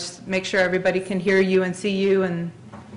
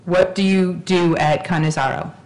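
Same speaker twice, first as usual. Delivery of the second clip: slow, carefully spaced words; slow and clear; slower than usual. Real, not acted. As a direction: repeat it slowly for a bad line. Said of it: "So let me try that again".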